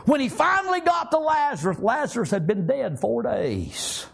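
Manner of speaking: high start, slowing as it comes down; impassioned preaching. Real, not acted. Preacher telling how Jesus reached Lazarus late, impassioned. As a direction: preach it high, then draw out the ending.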